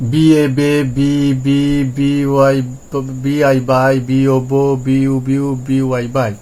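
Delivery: letter by letter, then the syllable; spelled-out reading drill. Shown as a demonstration. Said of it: "এইভাবে পড়বো". (বানান করে উচ্চারণ)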